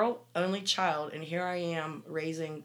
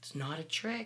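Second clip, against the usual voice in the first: soft, hushed whisper, close in; 8 dB quieter than usual. Recounting whispering a warning to him again, retelling a whisper. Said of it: "And I whispered to him again".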